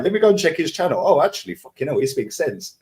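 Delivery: mock amazed viewer discovering the channel; surprised new viewer. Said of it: "They're like".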